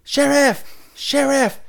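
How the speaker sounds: high, loud yell for the sheriff; top-of-the-lungs holler, mimicked; imitated scream. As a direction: holler it like calling for help.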